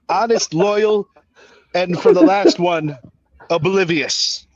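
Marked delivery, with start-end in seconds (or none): 0.0-1.1 laughing. Real, not acted. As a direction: crack up on the word, then carry on. Laughing while listing traits.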